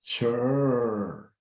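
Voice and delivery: "Sure" lengthened with a falling sweep. Shown as a demonstration. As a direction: stretch out "Sure".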